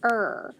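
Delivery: "er" as one drawn-out sound; letter sound. Shown as a demonstration. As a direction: hold "er" as a single r-coloured vowel. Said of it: "which says er".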